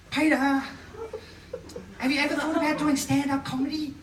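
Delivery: high-pitched stereotyped gay therapist impression; hammed-up gay stereotype, lifted high; stereotypical gay man. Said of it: "I'm doing that accent 'cause he's gay".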